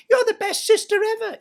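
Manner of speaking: high sugary simper; a simpering imitation of a goody-goody stepsister; mock Cinderella. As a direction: play the sweet little helper, mocking. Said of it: "she'd say to me".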